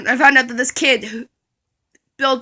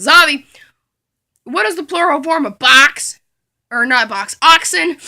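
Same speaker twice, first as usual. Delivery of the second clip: a hint of a louder, slightly higher teacher; lightly voiced strict teacher; mock teacher questioning; 3 semitones higher, 4 dB louder, slower than usual. Teacher voice calling on student.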